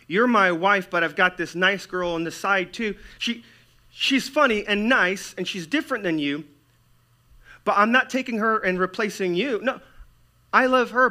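loud, high-pitched cajoling husband; mock soothing of a betrayed wife; placating husband. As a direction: reassure the wife far too insistently. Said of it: "when you're a man who says".

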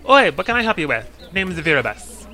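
a hint of a brisk, gruff shipwright greeting strangers; shipwright Virabus. Tall shipwright greets the adventurers, lightly voiced rough dockside woman. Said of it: "she says".

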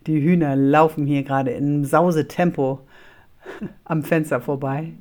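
laughing through the words; trying not to laugh; cracking up mid-line. Real, not acted. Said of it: "Sorry, ich muss grad lachen".

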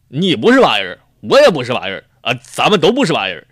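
loud, sure-of-himself proclamation; confident know-it-all. Acted. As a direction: declare it like an expert, loudly.

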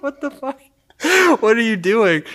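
imitating her stunned alarm; shocked girlfriend. Girlfriend shocked at him undressing.

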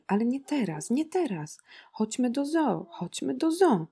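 high, wailing acted plea; sobbing child's plea. A narrator's reading. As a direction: beg like a tearful little girl. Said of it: "szlochała, rozmazując łzy po twarzy".

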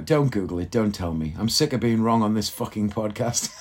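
ordinary talk, nothing marked

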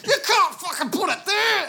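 high, loud mock outburst of rage; imitating angry dad. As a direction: flip out like dad over nothing. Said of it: "dad gets full on angry at it".

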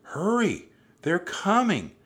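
high, loud alarm call; urgent shouting. A narrator's reading. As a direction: shout a warning from afar. Annie warns pirates approaching.

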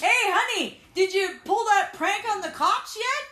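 dad voice. Acted. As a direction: call up as a cheery dad.

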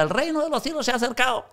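high, fast mock proclamation; hammed-up announcement, high and quick; mock shout. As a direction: cry it out like a pretend office preacher. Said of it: "párate allí en tu oficina y grita".

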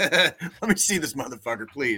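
real laugh through the words. Real, not acted. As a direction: laugh while begging to see. Repeats demand, laughing now.

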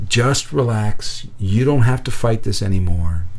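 slow, steady, soothing murmur; soothing, calming voice. Retold or imitated. Inner voice telling a hurt boy to let go, soothing and calm. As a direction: lull them gently, drawing out the words. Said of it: "It's very soothing, very calming".

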